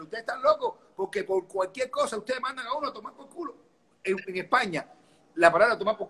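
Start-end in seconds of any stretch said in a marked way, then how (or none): 0.0-3.6 astonished. Retold or imitated. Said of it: "yo le decía al español".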